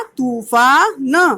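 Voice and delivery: slow, stretched तूफान with a long ऊ; teacher slowly sounding out तूफान; drawn-out reading. Shown as a demonstration. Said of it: "उसे थोड़ा खींच कर पढ़ा जाता है".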